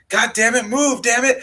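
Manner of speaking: high shrill-pitched mock of a frantic mother shaking the doll; frantic mom. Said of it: "She's like".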